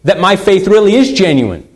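a touch of pleading doubt; anxious wondering. Acted. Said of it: "we're always wondering".

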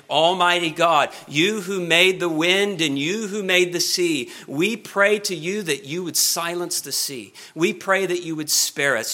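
measured, formal petition to God; crying out in prayer. Acted. Preacher imagining a prayer to God over the sea, imploring. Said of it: "cry out to God in prayer".

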